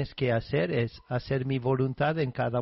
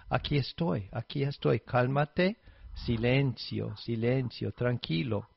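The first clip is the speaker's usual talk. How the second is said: gentle soothing. Acted. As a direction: hush a worried friend. Jesus soothing the worried priest.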